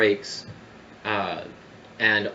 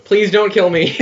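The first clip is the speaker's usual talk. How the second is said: terrified begging; 10 semitones higher, 10 dB louder than usual. Acted. Necromancer begs for life.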